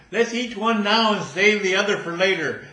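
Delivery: high, loud squirrel chatter; a greedy little squirrel plotting. Acted. Squirrel voiced in joke.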